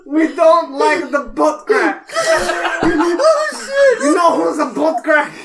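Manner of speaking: hammed-up ranting character; mock furious rant. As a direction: shout like an unhinged foreigner ranting. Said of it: "Why do you sound like Filthy Frank".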